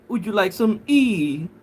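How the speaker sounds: tea said as "E" with the T left off; mock posh "some E" with no T; T dropped. Shown as a demonstration. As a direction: drop the T from tea. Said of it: "you have to say".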